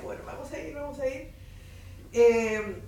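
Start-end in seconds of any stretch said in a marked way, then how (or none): 0.0-1.3 very soft, resigned, giving in; resigned mutter. Retold or imitated. Teacher told she gets the fourth-year class, resigned and very soft. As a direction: sigh it out like a teacher accepting her fate.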